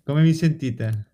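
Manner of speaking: slow, muffled behind a mask; through a face mask. Real, not acted. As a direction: talk slowly through a mask. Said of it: "io provo a parlare con la mascherina adesso".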